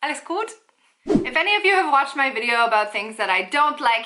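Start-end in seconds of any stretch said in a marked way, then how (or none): 0.0-0.5 higher, rising casual question; casual German check-in. Shown as a demonstration. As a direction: toss off a light greeting as a demo. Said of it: "Rather just saying".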